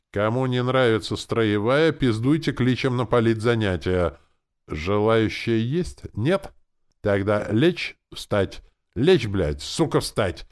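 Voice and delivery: bully the recruits with loud commands; high, forceful army bawling; barked orders. A narrator's reading. Sergeant berates and orders prisoners.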